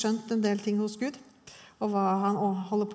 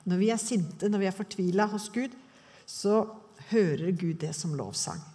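ordinary delivery

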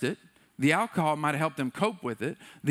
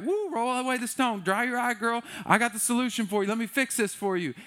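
higher-pitched, brisk take-charge voice; eager fixer; 6 semitones higher than usual. Acted. Husband rushing to fix his crying wife's problem, eager.

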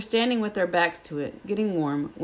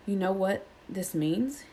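mild breathless; 2 semitones higher, 4 dB quieter than usual. Acted. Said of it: "he finished breathlessly".

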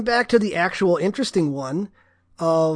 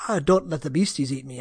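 attempted Jamaican accent; 5 semitones lower, 4 dB quieter than usual. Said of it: "I cannot do his accent".

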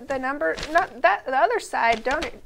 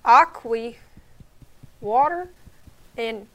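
put-on Southern accent reading ingredients; country accent. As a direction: read the list in a lightly Southern country voice. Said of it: "read these ingredients in a country accent".

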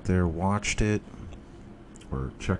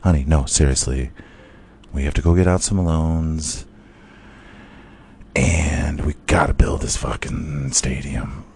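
lower, hushed and earnest; earnest husband; 4 semitones lower than usual. Retold or imitated. Husband calming his wife, lower and earnest. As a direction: convince her calmly. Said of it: "And he's like".

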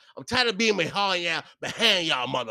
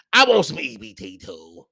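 louder demand; 7 dB louder than usual. Real, not acted. Ranting about being denied EBT.

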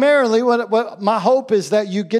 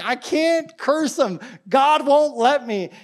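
high, slow mock protest; Balaam; 6 semitones higher, slower than usual. Prophet telling the king he cannot curse, high acted protest. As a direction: plead helplessly in a raised, drawn-out voice. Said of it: "he's like".

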